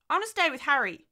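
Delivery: put-on high, loud little-girl protest; protesting child. Daughter refusing to go shopping, child's protest. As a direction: refuse as a stubborn small child.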